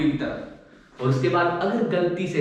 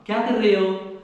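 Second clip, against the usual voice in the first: boss demanding; 4 semitones higher than usual. Retold or imitated. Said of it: "इनको चाहिए जवाब".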